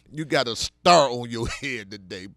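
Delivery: mock teacher praise.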